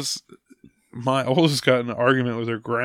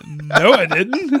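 put-on drawn-out, higher kid's protest; slow, raised mock child voice; mock child denial; 5 semitones higher, 4 dB louder, slower than usual. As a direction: imitate a daughter refusing to believe it. Daughter denying in retold argument.

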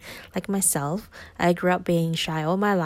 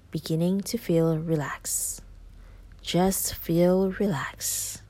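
right in your ear; slower than usual. Acted. Whispered relaxation suggestion.

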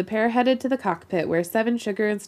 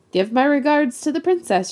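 mocking farewell; 8 semitones higher, 4 dB louder than usual.

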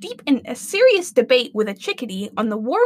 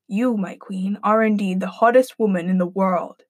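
lower, solemn magic mirror; lower, grave mirror voice; deep mirror voice; 5 semitones lower than usual. Acted. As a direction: speak like an enchanted mirror. Mirror's voice in story.

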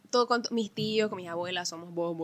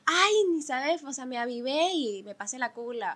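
smug bragging; 4 semitones higher, 5 dB louder than usual. Retold or imitated. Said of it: "yo odio esas personas vivas".

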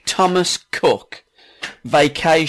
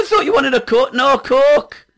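put-on Geordie accent; 11 semitones higher than usual. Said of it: "he's suddenly gone Geordie".

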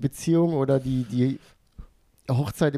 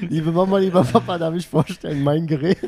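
cute anime streamer; 2 semitones higher, 5 dB louder than usual. Pretend. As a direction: present it proudly, cute voice. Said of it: "mock introduction to parents".

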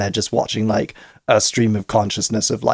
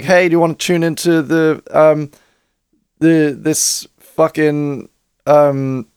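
higher, hammy sales-pitch voice; ad announcer voice; 5 semitones higher than usual. Pretend. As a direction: play it like a cheesy sponsored pop-up. Mocking a pushy in-app ad.

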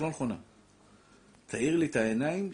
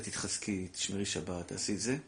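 a softer, lower quoted plea; gentle advice; 5 semitones lower, 7 dB quieter than usual. Retold or imitated. Rabbi recalling his gentle words to the girl, softly. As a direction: quietly encourage her. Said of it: "אמרתי לה".

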